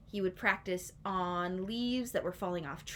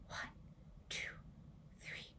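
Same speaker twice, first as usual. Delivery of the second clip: calming count; 17 dB quieter than usual. Shown as a demonstration. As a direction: breathe and count gently. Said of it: "took a deep breath and counted".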